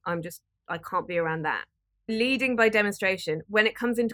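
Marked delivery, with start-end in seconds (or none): 0.0-1.7 soft, gentle refusal; gentle, understated boundary; really gently. Shown as a demonstration. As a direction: let it go quietly and kindly. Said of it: "and really gently".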